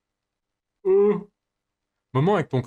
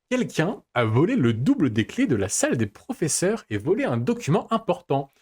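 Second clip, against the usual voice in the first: annonce d'épisode. Acted. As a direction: lecture théâtrale de bande-annonce, mots bien appuyés. Lit le résumé de l'épisode suivant. (narrateur de résumé, intonation très modulée)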